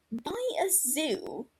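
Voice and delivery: slow, disbelieving echo; incredulous. Acted. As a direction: repeat it like it makes no sense. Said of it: "Regulus interrupts".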